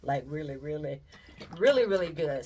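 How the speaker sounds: really, really good with the last really punched loud; emphasis on really. Shown as a demonstration. Praising the cakes to her viewers, stress on really. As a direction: pile on the reallys, hit the last one hard. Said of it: "when I put emphasis on that really".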